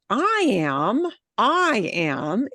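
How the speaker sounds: "I am" with the weight on "I"; punched I am. Shown as a demonstration. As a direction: hit "I" hard in "I am". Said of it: "if you would punch that word".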